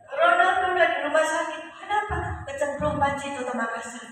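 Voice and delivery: high-pitched acted wail; retold hysterical mother. Mother tells of the boy in hospital, hysterical. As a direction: imitate a panicked mother breaking bad news.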